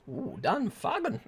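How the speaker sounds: slow, lightly accented Dan Fagan with an ooh; a hint of a put-on accent on the name. Shown as a demonstration. Streamer reading out a viewer's name, light put-on accent. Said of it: "Don't mean for the accent".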